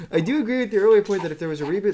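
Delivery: trying not to laugh while reading a comment; laughing through it. Real, not acted. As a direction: fight off the laughter and rush the sentence. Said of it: "Trying not to laugh at this".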